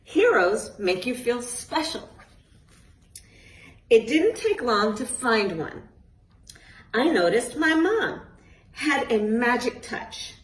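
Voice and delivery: put-on lively storybook reading to kids; reading to children. A narrator's reading. Author reading her book aloud to a group of children, lively storytelling. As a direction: read it like a bedtime picture book.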